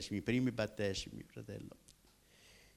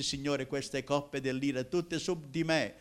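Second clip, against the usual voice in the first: louder, rising, imploring prayer; pleading cry to God; 3 semitones higher, 4 dB louder than usual. Retold or imitated. Young man crying out to the Lord for salvation, louder. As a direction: beg for mercy, growing louder each time.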